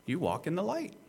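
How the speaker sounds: lifted, easy affirmation; statement of fact. Shown as a demonstration. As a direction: state it as who they already are, pitch rising at the end. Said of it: "I'm emphasizing here, you do".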